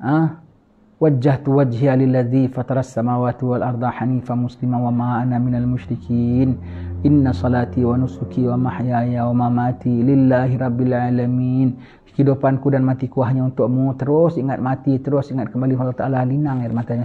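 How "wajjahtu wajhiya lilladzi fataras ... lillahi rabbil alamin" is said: measured, devout recitation. Acted. Recites prayer verses slowly.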